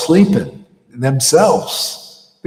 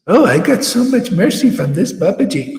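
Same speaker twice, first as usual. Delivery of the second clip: mock boast; 9 semitones higher than usual. Mocking boastful followers.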